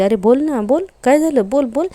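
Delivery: an imitated irritated boss pressing for an answer; impatient demand. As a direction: badger them to talk, voice climbing high. Priya badgering the two men.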